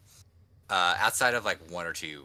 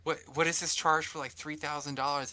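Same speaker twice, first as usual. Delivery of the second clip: higher-pitched mock disbelief; incredulous questioning; 8 semitones higher than usual. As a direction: imitate an auditor querying the charges. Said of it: "he'll go through the numbers".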